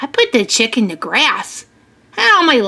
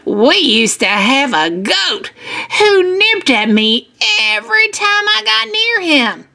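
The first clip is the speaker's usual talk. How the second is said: lilting anecdote with high peaks; lightly voiced farmer telling on himself; confiding farmer; 6 semitones higher than usual. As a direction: share a funny confession with kids. Farmer tells goat story.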